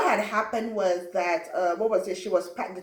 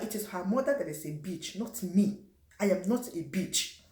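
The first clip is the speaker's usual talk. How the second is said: put-on thick African accent; 6 dB quieter than usual. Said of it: "my accent was super thick".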